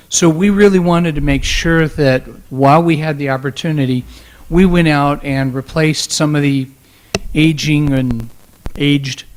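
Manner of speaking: hoarse, strained losing voice. Real, not acted. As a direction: push through a voice that's going. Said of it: "I'm losing my voice".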